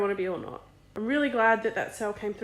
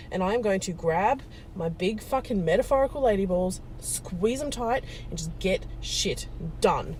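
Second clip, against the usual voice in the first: defiant resolve. Real, not acted. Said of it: "I'm gonna choose to overcome".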